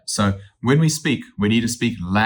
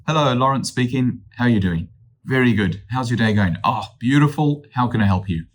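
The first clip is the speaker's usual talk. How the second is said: upbeat phone greeting; 2 semitones higher than usual. Shown as a demonstration. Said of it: "So that positive atmosphere".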